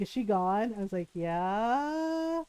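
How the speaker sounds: low, soft hushed question; hushed check. Retold or imitated. Sisters checking the mom has left, hushed and low. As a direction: ask it under your breath.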